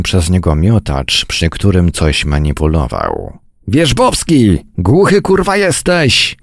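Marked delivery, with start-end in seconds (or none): 3.7-6.4 much higher, exasperated yell; angry roar. A narrator's reading. Commander to a soldier who ignores him, angry roar. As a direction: lose your temper at being ignored. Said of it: "ryknął dowódca".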